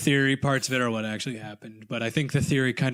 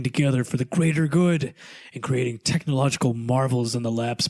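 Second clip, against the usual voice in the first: storytime voice. Acted. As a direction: read like a bedtime tale. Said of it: "Are you ready for Zach's story time voice once again?".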